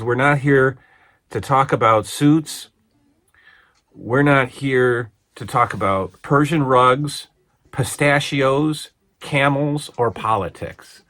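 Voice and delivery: mock outburst, slow and emphatic; Iron Sheik. Wrestler insulted by talk of suits, imitated indignant outburst. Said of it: "And then Iron Sheik loses it".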